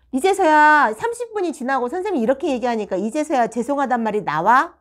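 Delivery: high, loud-ending incredulous question; indignant retold telling-off; exasperated scolding. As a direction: re-enact a teacher fed up with waiting.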